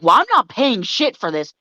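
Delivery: lightly voiced entitled Karen; a touch of indignant customer, stressing the blame; typical Karen. Customer refuses to pay the store, mild Karen indignation. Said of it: "turn to the typical Karen".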